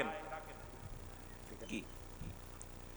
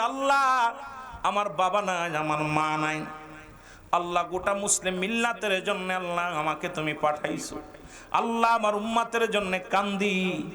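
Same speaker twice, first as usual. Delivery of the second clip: understated weeping prayer; mild tearful lament; 4 semitones lower than usual. Acted. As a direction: plead with God in mild sorrow. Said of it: "আমার নবীজি কান্দে". (মৃদু কান্নার সুরে ফরিয়াদ)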